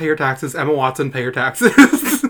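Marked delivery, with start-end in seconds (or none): 1.1-2.2 slowed, drawn-out scolding. Acted. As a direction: stretch every word out.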